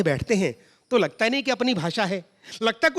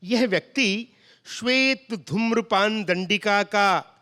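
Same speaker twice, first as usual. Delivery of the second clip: formal pure hindi. Retold or imitated. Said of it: "हमने कहा".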